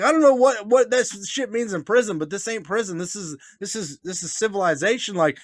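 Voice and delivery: high-pitched retold protest; flustered protest. Retelling his protest to angry man.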